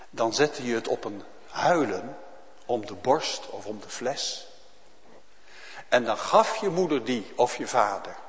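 ordinary talk, nothing marked

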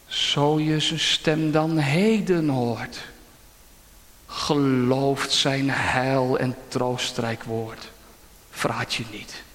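slow, solemn hymn recital; solemn recitation. Real, not acted. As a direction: intone it like a psalm.

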